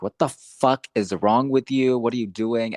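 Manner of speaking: a hint of the angry survivor, spitting each word; retold fuming. Podcaster voicing furious Lily in the drugstore, mock angry. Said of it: "Lily, is fucking fuming".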